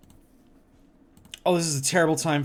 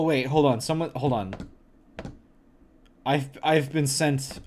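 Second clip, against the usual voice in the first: ordinary delivery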